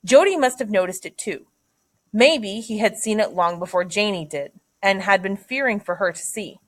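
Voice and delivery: read-aloud narration with lifted phrase openings; story narration. A narrator's reading. Teacher reads a passage to students, story narration. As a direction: read the novel passage out to listeners.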